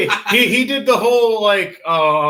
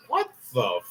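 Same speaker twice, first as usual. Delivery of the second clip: high, slow shock; stunned; 12 semitones higher, 4 dB quieter, slower than usual. Acted. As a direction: gape up at the flying pillar. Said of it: "You're like".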